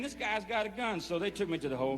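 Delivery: ordinary delivery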